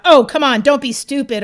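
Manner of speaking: mock dismissive salesman. Quoting the degrading salesman.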